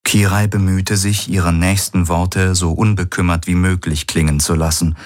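calm, even audiobook narration; story narration. A narrator's reading. Narrator reading a romance novel aloud, even narration. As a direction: read it as a steady storyteller.

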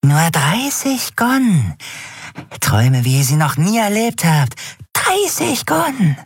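very high, drawn-out sales pitch; crazed hawking dealer. A narrator's reading. Dealer hawks vials of dream drug, high-pitched and coaxing.

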